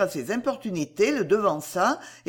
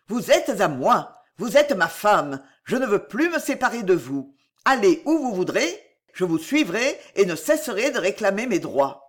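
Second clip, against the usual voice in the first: exclaiming; 4 dB louder than usual. Acted. A man refusing to let his bride go, loud exclamation. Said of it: "s'écria".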